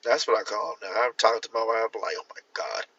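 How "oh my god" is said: breathless aside in a whisper. Retold or imitated. Talking to his wife, a shocked whisper.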